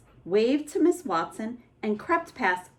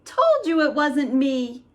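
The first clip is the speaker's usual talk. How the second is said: put-on alarmed kids; 5 semitones higher, 4 dB louder than usual. Kids shout discovery.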